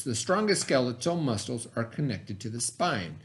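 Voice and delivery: put-on clear, deliberate read-aloud voice for kids; reading to children. Teacher reads the science book to her students, storytime voice.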